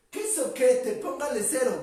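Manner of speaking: a hint of the Chavo mocking Ñoño in class. Teacher quoting the Chavo mocking Ñoño, lightly voiced cheeky kid. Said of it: "Con la voz del Chavo".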